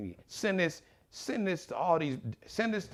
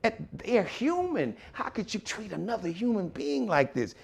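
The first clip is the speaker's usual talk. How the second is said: mock shocked white owner; 8 semitones higher than usual. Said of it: "And they'll be like".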